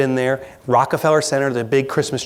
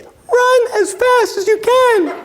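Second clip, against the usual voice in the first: comic high-pitched panic, drawn out slowly; 4 dB louder, slower than usual. Acted. Panicked half of the brain urging escape, very high pitch. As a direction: squeal it like a terrified inner voice. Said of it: "at a very high pitch".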